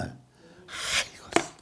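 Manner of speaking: long, hushed sighed-out groan; weary sigh. Acted. Worshipper finding life hard, sighing wearily. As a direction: sigh it out slowly, very softly. Acting someone burdened by hard living.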